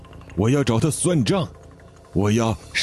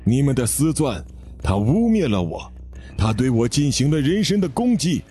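through gritted teeth; 4 semitones higher than usual. Acted. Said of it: "咬牙切齿地说".

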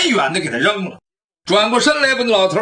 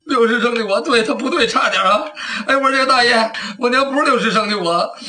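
flustered thief; 4 semitones higher than usual. Acted. Thief stumbles on his lie.

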